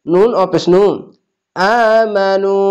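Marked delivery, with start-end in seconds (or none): 1.6-2.6 very slow chanted reading; drawn-out tajweed chant; slow recitation. Shown as a demonstration. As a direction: stretch every vowel of আমানু. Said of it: "এক আলিফ টেনে পড়বেন".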